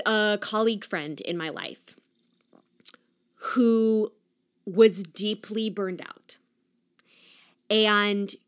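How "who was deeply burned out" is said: hushed whisper; confiding aside. Real, not acted. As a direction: drop to a breathy whisper. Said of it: "whispered aside".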